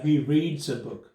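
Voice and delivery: "reads" said slowly as reeds with an s; slow careful example. Shown as a demonstration. Teacher modelling present tense slowly, "reads" said as reeds. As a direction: read it out word by word. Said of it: "इसको पढ़ते हैं रीड्स".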